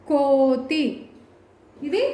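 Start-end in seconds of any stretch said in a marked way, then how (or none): 0.1-1.1 "కో" stretched out in "కోతి"; drawn-out long vowel. Shown as a demonstration. Teacher reading the word clearly, long "కో". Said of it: "ఎక్కడ దీర్ఘం తీస్తున్నాము".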